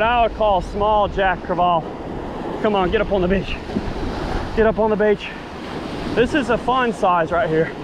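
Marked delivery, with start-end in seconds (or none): none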